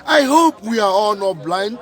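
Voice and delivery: ordinary talk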